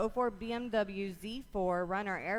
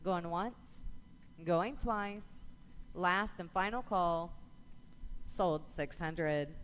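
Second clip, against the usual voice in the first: rapid rhythmic bid calling; auctioneer; faster than usual. Real, not acted. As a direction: auction chant, numbers rolling. Auction chant calling bids.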